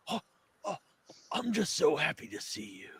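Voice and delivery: soft unvoiced whisper; Fred whispering to the nurse, half-hidden by the curtain; creepy whisper. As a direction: whisper it like a dirty old man.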